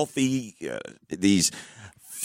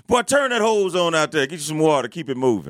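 scolding mom; 4 semitones higher than usual. Retold or imitated. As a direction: wave the kid off, then trail down.

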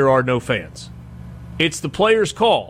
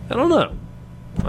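drawn-out high I don't know; 10 semitones higher, much slower than usual. Real, not acted. Second answer drawn out high.

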